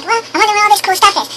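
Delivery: a hint of a character marvelling; lightly voiced curious Jack.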